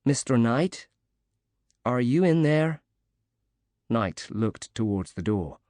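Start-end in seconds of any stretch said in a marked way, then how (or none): 0.0-2.8 lightly cheery, a touch higher, calling softly; a hint of a cheery woman calling softly from the hall. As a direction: call through the door brightly but gently. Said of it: "an American woman's cheery voice called softly".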